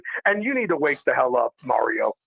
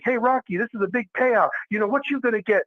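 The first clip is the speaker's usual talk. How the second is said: lightly voiced eager reporter, higher; 6 semitones higher than usual. Media asking Rocky about his payout, lightly voiced reporter. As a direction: pitch it up like a pushy reporter at a press conference. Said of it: "the media's like".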